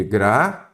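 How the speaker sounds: "Gratuito" split as gra... tui... to, with long pauses; syllable-by-syllable demo. Shown as a demonstration. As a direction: sound out "Gratuito" in three separate syllables, ui kept together. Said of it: "eu tenho um ditongo".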